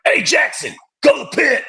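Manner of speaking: high barking drill instructor order. Retold or imitated. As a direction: bark it like a DI. Drill instructor voiced in story.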